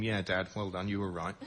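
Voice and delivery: mock gratitude to dad. Sarcastic address to father.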